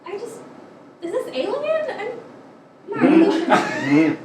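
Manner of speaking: strange trailer voice, pitch swinging; horror trailer voice. Acted. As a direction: play it like an eerie movie trailer. Alien movie parody.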